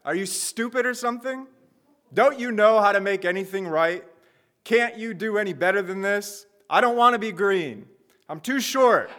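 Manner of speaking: high, indignant little clay man complaining nonstop; ranting Gumby. Acted. Clay figurine berating the person who shaped him, high-pitched and indignant. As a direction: play a tiny figurine mouthing off at its maker, pitched high. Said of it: "the first thing he says is".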